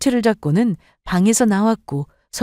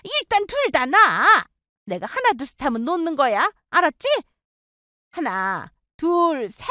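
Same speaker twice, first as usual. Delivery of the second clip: higher, commanding count; stern mother-in-law; 7 semitones higher than usual. Acted. Mother-in-law ordering daughters to let go, stern.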